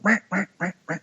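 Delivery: vocal duck call rah rah; duck call cadence. Shown as a demonstration. Hunter demonstrates a small calling cadence with his voice. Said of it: "hit 'em with a little small cadence".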